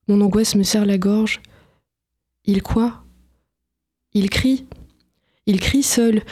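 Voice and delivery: steady, measured reading of a dramatic scene; novel reading. Acted. Author reading her own novel to the interviewer, calm storytelling voice. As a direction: read the passage aloud for the listeners.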